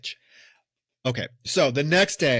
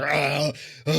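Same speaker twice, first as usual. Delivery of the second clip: drawn-out mock moans of pleasure; imitated climax moan. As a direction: imitate a man moaning at climax. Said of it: "like, moaning and squealing".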